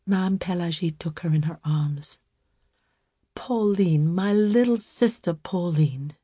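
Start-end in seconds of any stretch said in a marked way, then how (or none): 3.3-6.1 entreating. Acted. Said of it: "she entreated".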